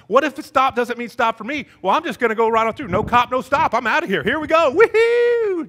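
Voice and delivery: high, loud, fast mock bravado ending in a whoop; loud, cocky and carefree, building to a high woohoo; gleeful rule-breaker. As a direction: whoop it up like a reckless driver blowing through a stop. Acts out driver running the stop.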